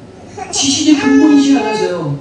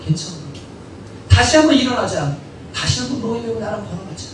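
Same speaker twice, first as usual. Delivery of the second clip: soft, tender reassurance; gentle, humble Lord; 6 dB quieter than usual. Acted. The Lord comforts someone who made a mistake, gentle and reassuring. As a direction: gently invite them to get up and walk along. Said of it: "주님의 온유하고 겸손한 마음으로".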